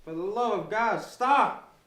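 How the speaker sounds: high, loud frantic scream; desperate scream. Acted. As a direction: scream in terror. Begging him to stop.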